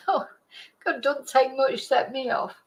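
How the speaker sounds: teary laugh, then a fragile voice; emotional laugh. Real, not acted. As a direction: laugh it off while welling up. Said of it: "now I'm getting emotional".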